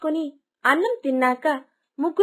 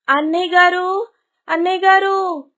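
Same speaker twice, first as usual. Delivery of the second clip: fake crying; 4 semitones higher, 5 dB louder than usual. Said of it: "దొంగ ఏడుపులు ఏడ్చి".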